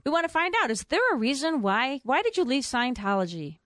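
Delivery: imitating the caller. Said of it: "she said".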